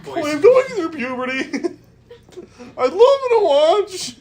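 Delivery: very high squeaky dragon voice, laughing. Acted. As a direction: pitch way up into a silly dragon squeak. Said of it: "Give me the dragon dad voice".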